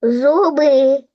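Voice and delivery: Зуби called out, stretching the first syllable зу; Зуби sung out like calling someone, stress on зу; called out word. Shown as a demonstration. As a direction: call Зуби out to hear where the stress falls. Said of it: "погукай слово зуби".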